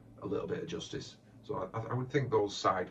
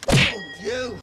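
a very loud, very high cry of outrage; shocked outcry; 15 dB louder than usual. Acted. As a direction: yelp it at the top of the voice. Character outburst in scene.

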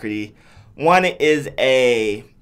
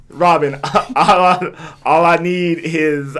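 mock Batman; 2 semitones higher, 4 dB louder, much slower than usual. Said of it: "Gallagher's Batman".

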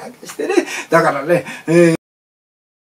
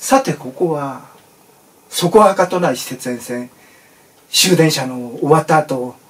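story narration; 2 semitones lower than usual. A narrator's reading. Story narration after intro.

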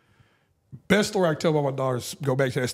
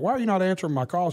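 higher-pitched retold complaint, a little frustrated; mildly frustrated; 5 semitones higher, faster than usual. Dad retelling his call to his daughter, mildly frustrated. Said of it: "I was a little frustrated".

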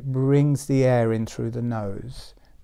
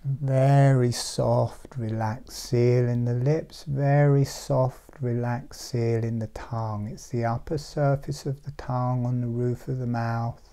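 guided meditation. Real, not acted. Teacher describing a relaxed seal to meditators, meditative.

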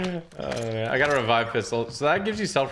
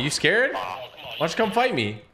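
mocking taunt; 6 semitones higher than usual. Taunting an enemy player.

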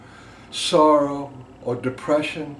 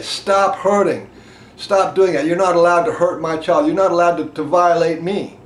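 forceful, firm rage voice; voicing rage; 3 semitones higher, 5 dB louder than usual. Voicing rage at someone hurting his child, forceful. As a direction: tell the abuser to stop, firmly. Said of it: "And what does rage say?".

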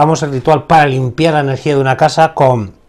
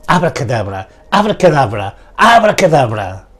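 incantation. Shown as a demonstration. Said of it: "hago lo mismo".

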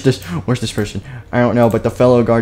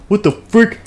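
high-pitched mock disbelief; play-acted astonishment; incredulous; 10 semitones higher than usual. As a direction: blurt it high, baffled. Guard reacts, acted.

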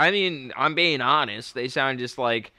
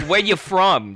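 higher-pitched mock challenge; challenging local; 6 semitones higher, 4 dB louder than usual. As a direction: quiz an outsider like a local. Mimics Boston locals quizzing outsiders.

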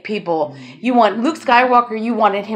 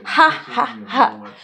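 mock gloating laugh; much slower than usual. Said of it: "the last laugh".

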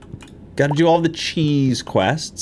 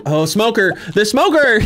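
1 excited realization; 8 semitones higher, 3 dB louder than usual. Real, not acted. Suddenly remembering the task.

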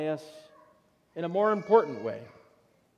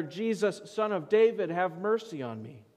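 raised pleading call, easing at the end; beggar's plea; 4 semitones higher than usual. Acted. Preacher quotes the beggar to God, raised plea. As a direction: quote a cry for mercy with lifted pitch.

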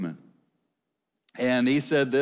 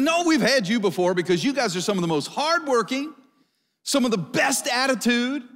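excited praise; 8 semitones higher than usual. Retold or imitated. Employer enthusing about hardworking Christians.

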